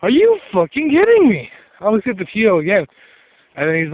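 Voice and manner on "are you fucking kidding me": high, loud, exploding in disbelief; sudden loud cry of disbelief at the cheating; outraged disbelief. Retold or imitated. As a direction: blurt it out, shocked and furious. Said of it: "And I'm like".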